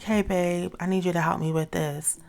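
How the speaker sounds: sweet, welcoming ask to a partner; inviting tone, asking her man for help; soft and inviting. Shown as a demonstration. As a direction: coax him gently with a sweet ask. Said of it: "in my feminine energy, soft, welcoming, inviting".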